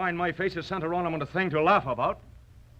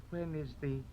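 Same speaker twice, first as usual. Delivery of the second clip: much softer, naive wonder; simple; 4 semitones lower, 11 dB quieter than usual. Acted. Swordsman plays a simple gawker asking softly. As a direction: ask it plainly and innocently.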